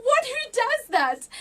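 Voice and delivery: high, slow, amazed disbelief; incredulous. Retold or imitated. Telling her friend about the dream, slow incredulous disbelief. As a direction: stretch it out, baffled and delighted. Incredulous reaction to God's question.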